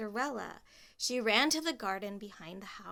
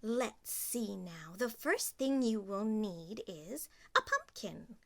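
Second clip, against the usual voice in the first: fairy godmother. Acted. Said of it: "the fairy godmother said".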